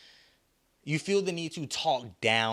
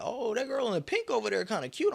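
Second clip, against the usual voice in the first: friend's voice; 12 semitones higher than usual. Retold or imitated. Friend's voice at the mall.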